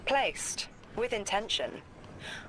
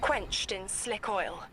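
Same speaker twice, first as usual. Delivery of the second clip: slow, deliberate visionary recital; entranced; slower than usual. Acted. Seer describing a vision piece by piece, slow and entranced. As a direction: spell out each image slowly, with pauses between.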